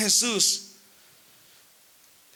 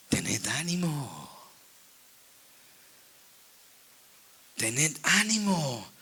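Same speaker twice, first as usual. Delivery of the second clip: very slow, low and hushed; drawn-out deep, gentle encouragement; Jesús; 8 semitones lower, 6 dB quieter, much slower than usual. Acted. Jesus reassuring frightened disciples in the boat, slow low voice. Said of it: "Jesús dijo".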